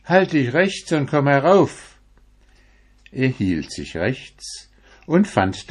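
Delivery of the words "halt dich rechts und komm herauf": put-on old woman calling. A narrator's reading. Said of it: "die rief".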